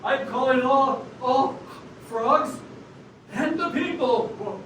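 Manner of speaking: lightly put-on radio address; measured broadcast call to the masses. Frog with the radio voice rallying Seattle, proclaiming. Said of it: "You're the one with the radio voice".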